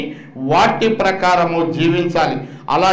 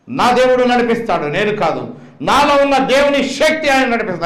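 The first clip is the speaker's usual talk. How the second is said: proclaiming; 4 semitones higher than usual. Retold or imitated. Retold proclamation to doctors.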